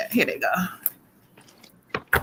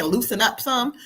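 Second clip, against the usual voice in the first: laughing; 7 dB quieter than usual. Retold or imitated. Relaying the spirit, laughing.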